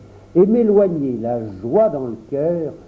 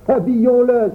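higher, louder call; exclaiming; 8 semitones higher, 5 dB louder than usual. A narrator's reading. Boy calls the others to dress Auguste, exclaiming. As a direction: cry it out to rally the others. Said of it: "s'écria Pierre".

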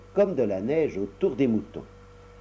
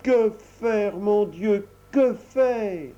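put-on fretting old mother; 9 semitones higher, 4 dB louder, much slower than usual. Old mother frets alone in kitchen.

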